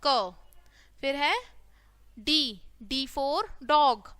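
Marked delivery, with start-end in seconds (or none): 0.1-0.3 क as "kuh", consonant plus short vowel; letter sound demo. Shown as a demonstration. Teacher showing the sound in cat, letter sound demo. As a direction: sound out क on its own. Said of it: "क्या बोलेंगे इसको".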